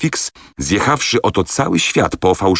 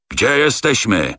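slow, higher, strangled with fury; choking with rage; 6 semitones higher than usual. A narrator's reading. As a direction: spit it out, choking on anger. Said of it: "dusząc się z wściekłości". (dusząc się z wściekłości, wolno)

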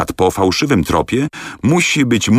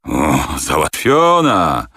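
slow, relishing the deal; greedy pleasure, drawn out; delighted agreement; slower than usual. A narrator's reading. Captain delighted by the money. (kapitan zachwycony pieniędzmi, wolno)

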